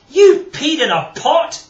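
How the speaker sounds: loud, high, slow words fighting a laugh; choked, almost laughing. Acted. Grandpa Jock to George, choking back a loud laugh. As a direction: hold back a laugh as you say it. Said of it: "choked Grandpa Jock, almost laughing".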